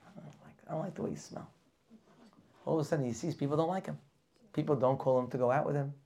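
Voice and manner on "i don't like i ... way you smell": neighbor's disdain. Acted. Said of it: "a neighbor looks at him and says".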